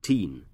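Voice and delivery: put-on "teen" said alone as the stressed syllable; single out "teen" as the stressed part; "teen" as a demonstrated stressed syllable. Shown as a demonstration. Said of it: "we stress the second syllable".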